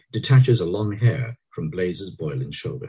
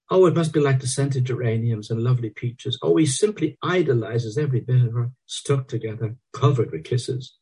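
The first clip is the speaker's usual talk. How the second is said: put-on swooning girl; 6 semitones higher than usual. A narrator's reading. Mina dreamy.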